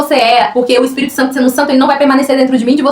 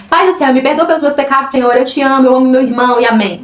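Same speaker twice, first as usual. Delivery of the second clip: mock rote prayer. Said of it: "você acha que Deus gosta que a gente chega diante dele assim".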